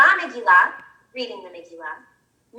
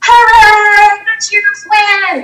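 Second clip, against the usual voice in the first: excited; 5 semitones higher, much slower than usual. Acted. Cheering story victory.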